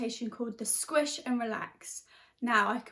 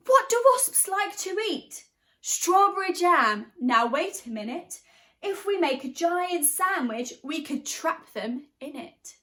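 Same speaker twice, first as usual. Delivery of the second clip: higher, louder eager announcement; excited baker; 6 semitones higher, 6 dB louder, slower than usual. Acted. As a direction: burst out with a bright idea. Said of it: "the baker leaped to his feet and cried".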